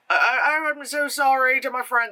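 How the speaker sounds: put-on high-pitched, botched Irish accent; attempted Irish accent. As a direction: try an Irish accent and miss. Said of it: "That's not the right accent".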